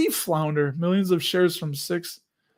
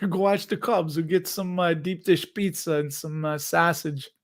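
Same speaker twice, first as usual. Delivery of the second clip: half-successful Chicago accent impression; attempted Chicago accent. Shown as a demonstration. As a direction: play at being a Chicago local. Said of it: "try to do a Chicago accent".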